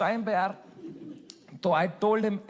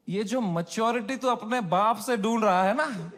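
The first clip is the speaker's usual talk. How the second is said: laughing mom quote; 3 semitones higher than usual. Retold or imitated. Retelling mom's joke laughing.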